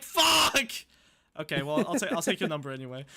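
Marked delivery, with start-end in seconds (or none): 0.0-0.7 high, loud exasperated yelp; frustrated curse. Retold or imitated. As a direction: blurt it out in defeat. Retelling his reaction.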